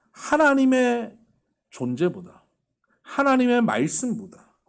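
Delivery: loud, slow, high-pitched sermon peak; full-force preaching. Acted. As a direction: preach it, drawing every word out. (크고 느리게 힘주어 외치는 설교)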